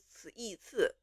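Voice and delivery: "刺一刺" split into consonant, vowel, then syllable; spelled out. Shown as a demonstration. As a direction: sound out "刺一刺" piece by piece. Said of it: "we don't do".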